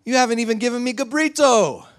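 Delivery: high, loud indignant outburst; furious. Acted. Older son complaining to his father, furious. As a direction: protest at the top of the voice. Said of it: "And now he's furious".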